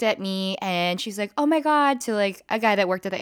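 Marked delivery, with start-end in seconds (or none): 1.4-2.0 mock outraged girl, higher voice; imitating a scandalized stranger; annoyed girl. Girl in line tattling to airport worker, mock outraged.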